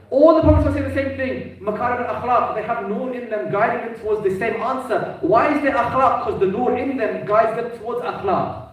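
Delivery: impassioned preaching. Real, not acted. Preaches at full force.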